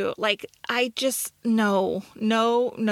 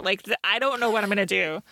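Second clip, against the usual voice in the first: usual speaking voice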